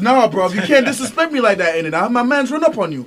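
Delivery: hammed-up London roadman accent, loud; mock roadman threat in London slang. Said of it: "talking about I was talking in British accent".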